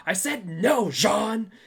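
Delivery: high, loud mock scolding; mock-outraged shout, laughing at the end; retold yelling. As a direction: yell it in imitation, breaking into laughter. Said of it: "She's yelling at me".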